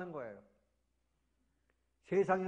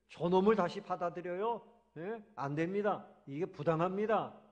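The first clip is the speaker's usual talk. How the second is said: resentful son; 2 semitones higher than usual. Retold or imitated. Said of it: "막 화가 나요".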